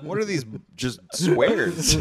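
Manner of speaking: slow, drawn-out scorn; mock disgust. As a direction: sneer at the boring boxes. Repeat of the mock complaint.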